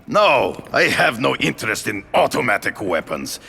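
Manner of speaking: rising, high furious shout; angry shout. Acted. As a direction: build to an outraged yell. Angry phone call about weapons.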